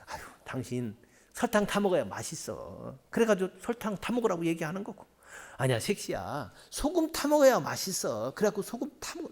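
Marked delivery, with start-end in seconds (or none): 0.1-3.0 loving urging. Retold or imitated. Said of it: "사랑하기 때문에". 5.6-8.3 loving urging. Retold or imitated. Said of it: "사랑하기 때문에".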